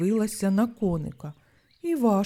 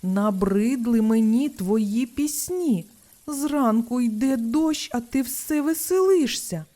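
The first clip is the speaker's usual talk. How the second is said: rude frog; 2 semitones higher, 4 dB louder than usual. Acted. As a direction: brush him off like a grumpy neighbour. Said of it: "Не чекав коник такої брутальності". (груба, зневажлива відповідь)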